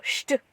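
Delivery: "sht" with a hushing sh before the t; German ST sound. Shown as a demonstration. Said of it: "if it's S T, you would go".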